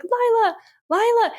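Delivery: high, mock-yelled name; calling for sister. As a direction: call out for a trapped sister in a half-hearted imitation. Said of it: "screaming for her".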